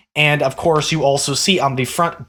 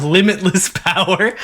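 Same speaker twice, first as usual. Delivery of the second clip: laughing; 3 semitones higher than usual. Real, not acted. Grinning at Chad's limitless power.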